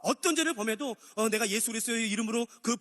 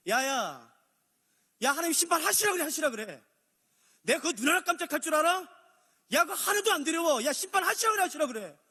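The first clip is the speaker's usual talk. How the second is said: defiant scoffing; 6 semitones higher than usual. Retold or imitated. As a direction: sneer at judgment. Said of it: "이 말이에요". (높고 크게 비웃는 도전적 말투)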